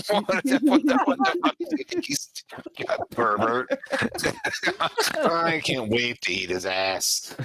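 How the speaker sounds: high, laughing creature voice; laughing spider. Acted. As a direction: cackle through the insults.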